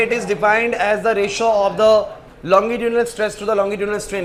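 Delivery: dictating word by word, very slowly, for notes; slow dictation. Acted. Teacher dictating a definition to the class, very slow. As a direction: spell it out slowly so students can write.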